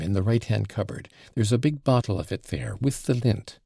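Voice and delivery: a hint of a bossy daughter in a panic; frantic girl. Lise bosses her mother about the wound, petulant and frantic.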